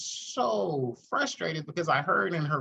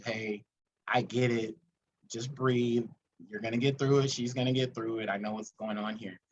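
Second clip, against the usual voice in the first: gentle reassurance; 3 semitones lower than usual. Retold or imitated. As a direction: settle a stressed friend down. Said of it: "just tell you".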